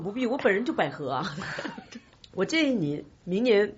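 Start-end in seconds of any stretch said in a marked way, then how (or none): 1.4-2.0 laugh. Real, not acted. Laughs at own joke.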